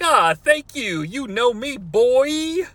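lightly voiced hip host; trying to be hip. Host to caller, mock-cool hip delivery. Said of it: "Trying to be hip".

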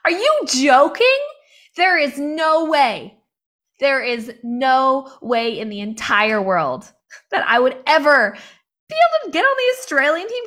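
loud, high disbelief, stretched out; incredulous outburst. Retold or imitated. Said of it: "I was like".

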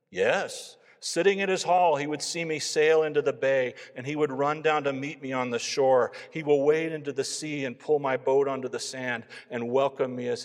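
swelling, joyful conviction, then hushed ending; Gunnar's fervent testimony. A narrator's reading. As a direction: rise high and loud, then settle tenderly. Gunnar testifies to his new faith.

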